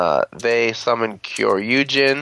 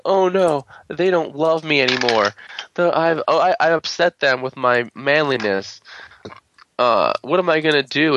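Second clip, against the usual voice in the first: mock whimpering, slightly higher; mock crying; 4 semitones higher than usual. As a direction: whine like a sulking kid. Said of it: "crying to himself like a little girl".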